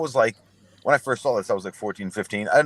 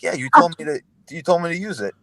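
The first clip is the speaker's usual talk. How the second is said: high, louder protest; whiny defense; 8 semitones higher, 4 dB louder than usual. Retold or imitated. Caught teen protests to older brother, high and whiny. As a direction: push back like a caught kid.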